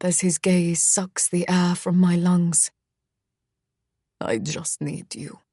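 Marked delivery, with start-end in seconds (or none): 4.2-5.4 quiet, low, tender line; soft low murmur. A narrator's reading. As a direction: breathe it softly. Misha's soft confession.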